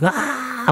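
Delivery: a quick, high, airy retold shriek of fright; mock scream. Streamer reenacting how she freaked out, high mock scream. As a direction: recreate the startled yelp from the horror mode. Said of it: "막 기겁하면서 했었어요".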